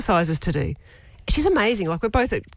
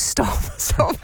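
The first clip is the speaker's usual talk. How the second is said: whispered stop; 10 semitones lower than usual. Retold or imitated. Trainer gently whispering to stop the worrying. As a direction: hush her gently, half laughing. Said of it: "She goes".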